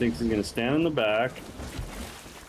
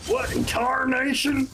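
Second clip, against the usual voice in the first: hick voice; 13 semitones higher than usual. Pretend. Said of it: "That one hurts my throat".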